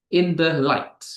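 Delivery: "in the light" as two weak beats, then strong "light"; stress on last word. Shown as a demonstration. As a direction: land on "light" in "in the light". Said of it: "and then stressed".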